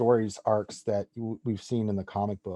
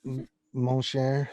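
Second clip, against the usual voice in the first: put-on Cajun accent; slower than usual. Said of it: "That Cajun accent".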